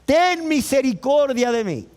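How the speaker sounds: acted cry of a beggar; calling out. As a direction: call out for mercy. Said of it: "Comenzó a dar voces y a decir".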